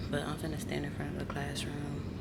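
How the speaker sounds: winded after climbing stairs; breathless, puffing from the stairs; out of breath. Real, not acted. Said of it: "I'm just out of breath from all them dang on stairs".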